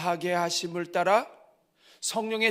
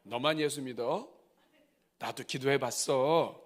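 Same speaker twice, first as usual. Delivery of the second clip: annoyed hush; 4 semitones lower, slower than usual. Pretend. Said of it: "그때 옆에 있는 사람이".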